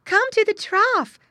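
high, loud, slow summons; squealing call. A narrator's reading. Mother pig summons missing piglet to eat, squealing call. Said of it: "grunting and squealing as she always did".

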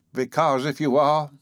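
high, cracked, complaining voice; querulous, aged and high-pitched; querulous old man. A narrator's reading. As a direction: fret like an ancient grumbler. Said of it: "went on the old man querulously".

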